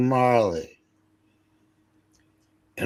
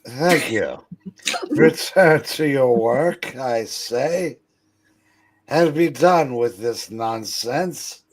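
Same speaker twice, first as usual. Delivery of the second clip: put-on stern old miser; 4 semitones higher, 4 dB louder than usual. Plays Scrooge scolding his clerk.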